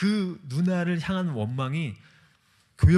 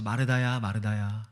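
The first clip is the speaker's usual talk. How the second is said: tender sorrowful calling; 4 semitones lower than usual. Retold or imitated. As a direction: call her name gently, grieving for her. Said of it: "안타까워하시면서 말씀하시는 거예요". (안타까워하며 부드럽게 부르는 이름)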